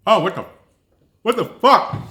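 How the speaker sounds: high, loud disgusted outburst; shocked disgust. Real, not acted. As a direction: recoil at the taste with a yell. Disgusted reaction to the honey paste.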